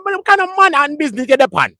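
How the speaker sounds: high, playful mock Jamaican asking; Jamaican accent. Retelling the Manhattan banter, in a high mock Jamaican accent. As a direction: quiz him in a put-on Jamaican voice. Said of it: "That's what my Jamaican man said".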